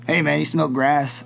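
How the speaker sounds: lightly voiced old roadie; a hint of weathered stoner. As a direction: imitate an old hippie casually offering. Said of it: "he talks like this".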